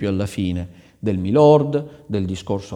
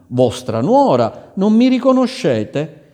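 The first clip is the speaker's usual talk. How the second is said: joyful reveal; 9 semitones higher, 7 dB louder than usual. Acted. The bride reveals herself.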